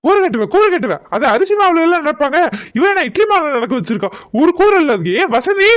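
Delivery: irritated husband's rant, rising at the end; indignant telling-off; exasperated scolding. Acted. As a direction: berate her for foolishness. Father berates wife over batter.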